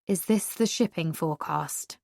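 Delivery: flat, bored question; deadpan. Acted. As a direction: ask it dead flat with no rise. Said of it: "in so deadpan a tone".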